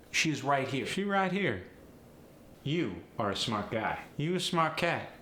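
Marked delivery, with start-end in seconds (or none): 0.9-1.6 high-pitched AAVE delivery; AAVE, pitched up and melodic. Shown as a demonstration. Teacher showing the dropped "is", AAVE. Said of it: "We often drop the word is". 4.2-5.1 high, melodic AAVE. Shown as a demonstration. Teacher showing the dropped "are", AAVE. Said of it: "the word are".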